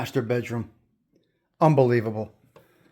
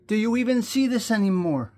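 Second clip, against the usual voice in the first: out of breath; 6 semitones higher than usual. Real, not acted. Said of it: "little out of breath".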